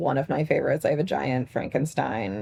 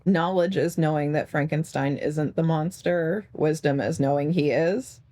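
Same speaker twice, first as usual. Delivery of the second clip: slow quip delivery. Pretend. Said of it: "my favorite quip about Frankenstein".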